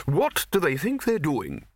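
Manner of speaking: put-on high, slow blustering old wizard; gruff Arch-Chancellor voice.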